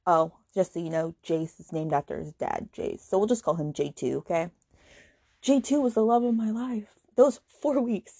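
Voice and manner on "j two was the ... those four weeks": lightly voiced dreamy mother quote; mock swooning mother. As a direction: swoon over the line to mock it. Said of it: "That's a direct quote from the book".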